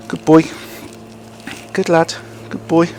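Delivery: high, bright praise for a dog. Real, not acted.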